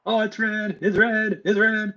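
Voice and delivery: high, repeated excited exclaim; thrilled the timer just turned red. Real, not acted. Timer turns red, surprised.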